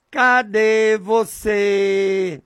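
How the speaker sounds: long drawn-out call, every vowel held; calling out to God. Shown as a demonstration. Preacher shows how he calls to God, drawn-out calling. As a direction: stretch it out slowly like a sustained cry. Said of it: "Eu falo assim, desse jeito".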